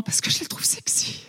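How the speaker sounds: unvoiced confession whisper. Real, not acted. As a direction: whisper it like a shameful secret. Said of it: "j'ai honte".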